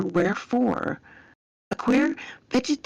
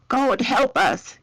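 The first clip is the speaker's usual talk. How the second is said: high, slow bellow for help; raised, drawn-out soldier's exclamation; narrated bellow; 6 semitones higher, slower than usual. A narrator's reading. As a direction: cry out slowly to the soldier beside you. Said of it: "he bellowed to the man next to him".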